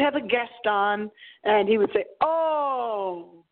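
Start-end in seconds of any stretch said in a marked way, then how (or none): 2.2-3.4 lightly imitated dramatic radio host, hushed on the my; a hint of an eerie late-night host going oh my; Art Bell's tone. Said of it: "in that tone of voice".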